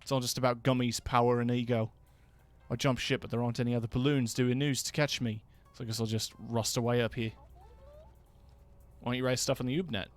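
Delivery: bad Richard Ayoade accent. Gamer voicing a jaded news balloon, weak English accent. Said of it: "That was a bad accent".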